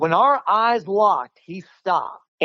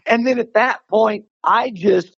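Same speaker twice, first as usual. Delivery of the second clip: laughing. Real, not acted. Laugh heard on lines.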